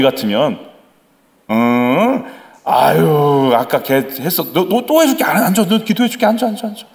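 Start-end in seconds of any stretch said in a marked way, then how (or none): 1.5-6.9 casual placating. Acted. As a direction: brush off the complaint with repeated coaxing. 가볍게 달래는 아버지를 연기. (가볍게 달래며 높아지는 말투)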